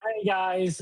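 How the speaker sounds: bright, high cashier greeting; customer service voice. Retold or imitated. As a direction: chirp it like a friendly cashier. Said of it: "my customer service voice".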